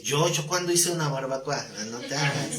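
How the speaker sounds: chuckling while voicing both sides; amused retelling with a laugh; laughing through quotes. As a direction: laugh as you play out the exchange. Retelling Nathan confronting David, laughing.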